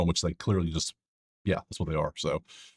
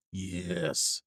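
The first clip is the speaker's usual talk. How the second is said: whispered yes; 9 dB quieter than usual. Real, not acted. Quietly cheering a pick.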